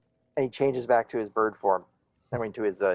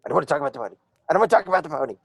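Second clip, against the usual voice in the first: rising, louder sulky repeat; sulky refusal; 3 semitones higher, 3 dB louder, much faster than usual. Acted. Griffin refusing to tell the druid about the pony, sulky. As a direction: dig in and refuse to discuss it.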